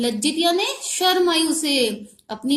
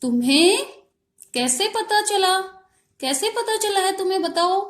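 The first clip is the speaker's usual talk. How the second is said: higher, mild mock roar of a lion; lion's roaring question; 5 semitones higher than usual. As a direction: play the lion demanding an answer, a bit raised. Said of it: "जोर से दहाड़ा और उसने पूछा".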